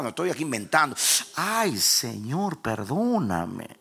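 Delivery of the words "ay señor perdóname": very slow, drawn-out mock wail; trembling plea. Preacher repeating his plea to God, slow acted wail. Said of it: "Temblé porque identifiqué la voz".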